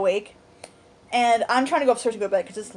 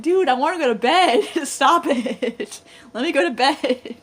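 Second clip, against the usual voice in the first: retold exasperated plea; 3 semitones higher, 4 dB louder, slower than usual. Retold pleading to go to bed.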